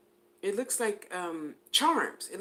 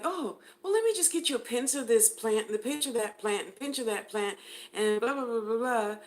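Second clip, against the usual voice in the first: sweet helpful healer; 4 semitones higher than usual. Retold or imitated. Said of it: "And you'll be like".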